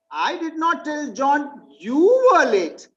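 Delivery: "you" pushed, slow and falling; stress on YOU. Shown as a demonstration. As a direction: hit "you" to point at someone else. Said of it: "I was talking about someone else".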